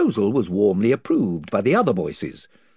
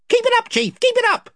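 higher eager followers; chorus of voices; 6 dB louder, faster than usual. Acted. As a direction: cheer on your chief.

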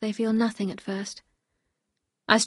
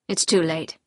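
lightly voiced resigned husband, a little lower; a hint of a defeated man; resigned Maxim; 5 semitones lower than usual.

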